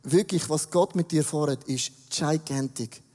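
sincere prophetic. Retold or imitated. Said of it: "um dir zu sagen".

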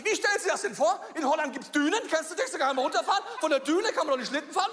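high, loud, laughing retort; laughing indignation. Retold or imitated. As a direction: retell her complaint while laughing. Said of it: "sagt sie".

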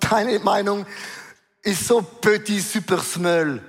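slow, dismissive tiny-opinion voice; a slow, mocking petit super small; mock belittling. Shown as a demonstration. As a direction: shrink deine Meinung down to nothing, slowly. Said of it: "War Französisch".

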